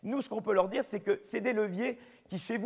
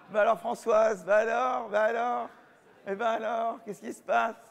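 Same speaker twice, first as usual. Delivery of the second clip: teasing mock reproach, louder; mock scolding; 3 semitones higher, 4 dB louder than usual. Professor jokingly scolds Françoise over the missing accents, mock reproach. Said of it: "Non, je plaisante".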